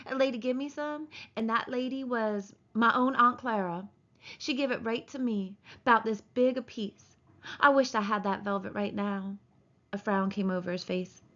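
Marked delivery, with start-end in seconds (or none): 0.1-9.4 lightly voiced big simple man reminiscing; simple, childlike man. Simple man recalling his aunt's gift, lightly childlike. Narrator voicing Lennie.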